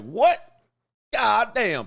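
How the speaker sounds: high, loud mock yell; hammed-up ref throwing the flag; referee outburst. Comic playing a referee calling a foul, mock yelling. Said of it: "He'd be like".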